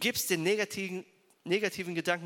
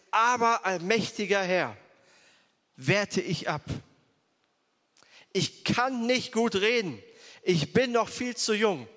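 pleading Jeremiah; 3 semitones higher, 5 dB louder than usual. Acted. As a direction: plead as the young prophet who feels unfit. Jeremiah objects to God's call.

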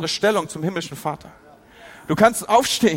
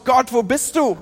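crying out to God; 5 semitones higher than usual. Retold or imitated. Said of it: "du schreist raus".

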